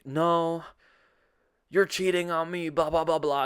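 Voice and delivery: loud, high re-enacted protest; hammed-up quarrel voice; retold accusation. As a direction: argue back in mock outrage.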